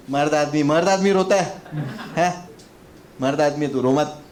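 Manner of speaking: loud teasing macho chiding; mock tough-guy lecture; mock scolding. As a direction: shame him for crying, jokingly. Scolding crying kid mockingly.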